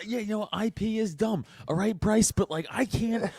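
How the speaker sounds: high, laughing mock plea; trying to explain patent law to Santa; pleading libertarian.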